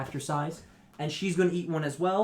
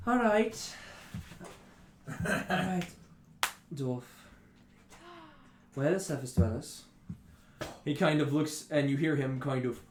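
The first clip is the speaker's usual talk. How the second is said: weary, menacing intruder; 2 semitones higher than usual. Acted. Tired raider demanding the surface dwellers' whereabouts, menacing.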